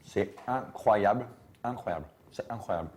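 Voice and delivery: awed. Real, not acted. Tasting the homemade charcuterie.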